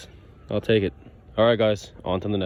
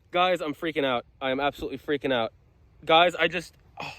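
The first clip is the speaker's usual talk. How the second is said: freaking out; 3 semitones higher, 4 dB quieter than usual. Real, not acted.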